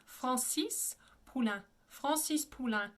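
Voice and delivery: Francis Poulenc with nasal vowels; French Francis Poulenc; French pronunciation. Shown as a demonstration. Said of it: "the way I pronounce it all together".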